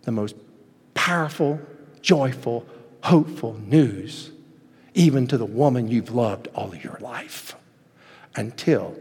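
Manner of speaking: fading from plain to a hushed near-whisper; solemn voice of God. Retold or imitated. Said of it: "And God says".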